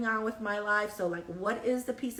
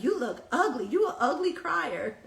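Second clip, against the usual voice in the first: laughing quote; 4 semitones higher, 3 dB louder than usual. Retold or imitated. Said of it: "He was like".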